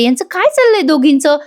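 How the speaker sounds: lightly acted curious wondering. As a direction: wonder to yourself, pitch lifted. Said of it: "पिहू विचार करते".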